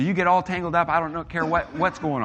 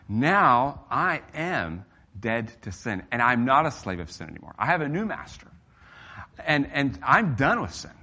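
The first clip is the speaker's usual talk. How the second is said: modelled declaration; 2 semitones higher than usual. Shown as a demonstration. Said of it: "surround yourself with the truth and say".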